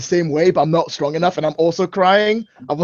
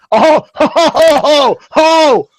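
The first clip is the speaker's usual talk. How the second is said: menacing ho-ho-ho; 4 semitones higher, 4 dB louder, slower than usual. Acted. Father threatens son with belt.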